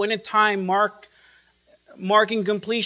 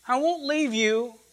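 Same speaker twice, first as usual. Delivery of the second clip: higher, fervent voicing of Jesus; Jesus speaking; 4 semitones higher than usual. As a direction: speak as the risen Lord, earnestly. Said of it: "as if Jesus is saying".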